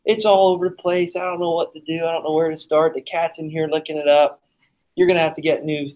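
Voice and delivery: hammed-up fake panic, rattled off; winding her up. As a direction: pretend a kitchen disaster to tease someone. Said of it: "I was just getting her going".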